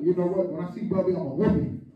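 low, soft mock threat; play-threaten under your breath; understated father's threat. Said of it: "I'm like".

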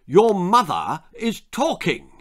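booming father. A narrator's reading. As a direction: boom it down the table. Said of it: "boomed Lord de Trop".

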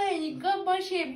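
delighted mock-disgusted reread. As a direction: savour the insult in a prissy voice. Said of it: "Bunu çok sevdim ya".

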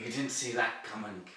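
put-on Russian accent. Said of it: "but in Russian accent".

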